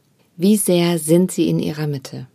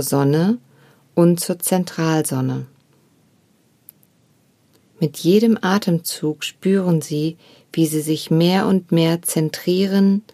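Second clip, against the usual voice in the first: guided meditation; 2 semitones lower than usual. Acted. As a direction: guide the listener gently into stillness. Leads a meditation.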